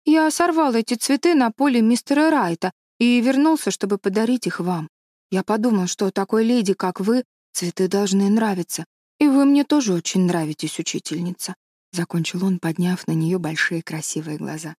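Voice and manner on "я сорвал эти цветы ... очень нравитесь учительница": lightly voiced shy boy, pitched a little up; a touch of an earnest pupil addressing his teacher; shy schoolboy. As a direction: lightly play a bashful boy giving flowers.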